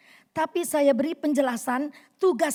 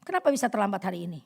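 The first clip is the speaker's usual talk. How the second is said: fast, curt demand; nagging tone; 3 semitones lower, much faster than usual. Shown as a demonstration. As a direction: snap at the late husband. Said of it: "Ini nada yang nggak bagus".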